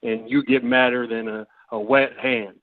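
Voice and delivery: Southern grandfather. Acted. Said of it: "Why are you talking like this?".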